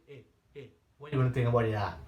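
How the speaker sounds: mock pushy callback, pressing hard; aggressive tone. Shown as a demonstration. Sales trainer showing the pushy wrong way, aggressive. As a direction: demo the wrong way, push back at the lead. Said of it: "you heard how my tone is so aggressive".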